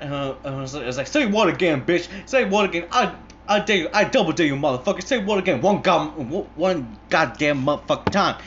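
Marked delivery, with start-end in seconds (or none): 1.1-8.4 loud, high-pitched, rapid threatening tirade; verbally assaulting. Retold or imitated. Hitman daring the interrogated man, furious. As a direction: act out a movie hitman exploding with rage. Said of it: "Jackson's verbally assaulting this guy".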